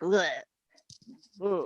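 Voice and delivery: mimicked guttural "ugh"; mock southeast Irish mumble as a noise; imitated southeast Irish grunt. Showing a friend how the southeast of Ireland sounds, imitated grunt. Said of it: "really southeast of Ireland, it's like".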